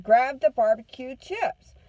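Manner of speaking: retold command, slow and forceful; exasperated order. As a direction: imitate a mom spelling out an order. Mom repeats order after hitting.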